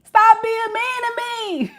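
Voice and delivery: high, whispered whine; whispered plea. Retold or imitated. Reader voicing the boyfriend whispering his plea to Shay. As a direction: whisper it, hurt.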